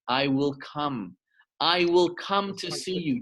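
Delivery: slow and steady, each word weighed; unhurried divine vow; solemn slow promise. Acted. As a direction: promise it gently and slowly. God's promise, first telling.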